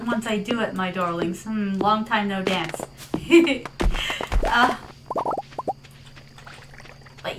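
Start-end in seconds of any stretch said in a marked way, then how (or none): 2.9-4.4 short breathy giggle. Real, not acted. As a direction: let out a little playful giggle. Chuckle after joking about dance.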